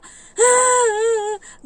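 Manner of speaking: a sharp loud high gasp with a cry; shocked gasp. Retold or imitated. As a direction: gasp like a child in distress. Acting the child's shocked cry.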